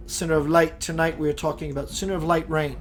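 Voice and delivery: channeled message delivered as a spiritual vessel; channel mode. Acted. Speaking as a channel to livestream viewers, preaching delivery. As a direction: let the message flow through you, unfiltered. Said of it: "I'm gonna go into channel mode".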